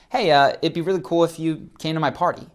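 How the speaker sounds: casual, noncommittal ask with a slightly lifted pitch; loose invitation. Shown as a demonstration. Coach demonstrating a loose party invite to viewers. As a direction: offer it like you don't mind either way. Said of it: "That is loose".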